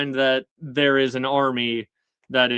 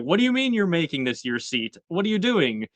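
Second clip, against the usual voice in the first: higher-pitched, disbelieving questioning; mock incredulous; 5 semitones higher, faster than usual. Mother questioning her son's choice of seat, mock incredulous. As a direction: act out an incredulous challenge.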